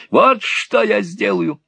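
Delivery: put-on high, loud gloating old miser; vile sneer. A narrator's reading. Old Gride threatening young Nicholas, sneering high. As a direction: threaten with a nasty grin.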